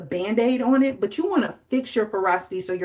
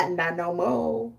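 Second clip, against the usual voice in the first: stern Mother Nature; 4 dB quieter, slower than usual. Retold or imitated. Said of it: "and then she said".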